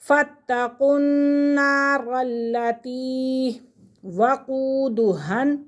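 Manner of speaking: slow, with each doubled letter joined and held; careful tajweed recitation. Shown as a demonstration. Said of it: "मिलाकर पढ़ेंगे".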